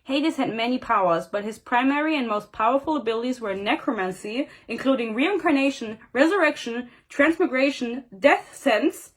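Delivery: measured reading-aloud voice; story narration. A narrator's reading. Reader reciting Hades' list of powers, story narration. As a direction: read it out as a novel passage.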